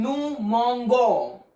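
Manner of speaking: mangons said "mon-go" with a hard g; nous mangons, g hard instead of zh. Shown as a demonstration. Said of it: "if I don't put E".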